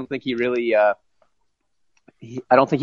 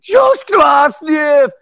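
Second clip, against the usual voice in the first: long high drawn-out yell; retold shout; 7 dB louder, much slower than usual. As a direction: yell the name like a frantic fan.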